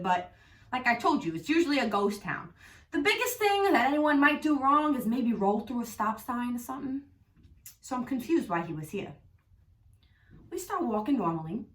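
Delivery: telling the story in a Long Island accent; thick Long Island New York accent all through. Real, not acted. Vlogging to viewers about the cop, in a Long Island accent. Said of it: "why I'm doing this fucking accent".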